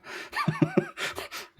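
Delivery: short chuckling burst of laughter; amused laugh. Real, not acted. Teacher amused by Korean-accented English pronunciation, chuckling. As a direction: chuckle to yourself at what you just heard.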